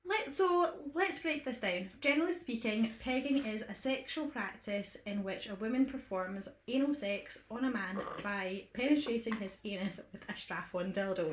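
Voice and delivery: composed, formal definition; straight-faced read. Shown as a demonstration. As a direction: read it deadpan, keep it together. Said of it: "I got you to do this bit".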